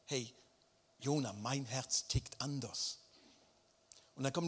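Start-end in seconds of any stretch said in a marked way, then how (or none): 0.0-3.0 tender reassurance. Acted. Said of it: "erklärt ihm nochmals".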